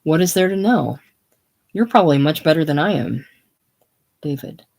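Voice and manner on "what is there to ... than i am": hearty and loud; hearty, brushing it off; extra hearty. Acted. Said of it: "extra hearty".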